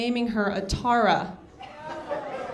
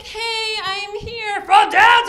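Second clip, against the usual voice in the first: higher, slow mock sports shout; mock hoop shout; 9 semitones higher, 6 dB louder, much slower than usual. Tall woman mocking dunking, shouting high. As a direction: yell like you just scored from downtown. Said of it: "I'm like".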